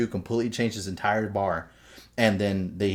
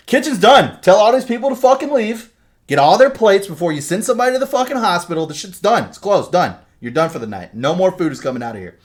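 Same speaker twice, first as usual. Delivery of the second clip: much higher and louder commanding yell; imitated shutdown order; 10 semitones higher, 10 dB louder than usual. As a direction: shout the kitchen closed like the boss. Host shutting down kitchen, imitated.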